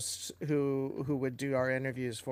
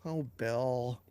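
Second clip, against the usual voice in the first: swooning host; 4 semitones lower, 6 dB quieter than usual. Retold or imitated. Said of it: "then she's like".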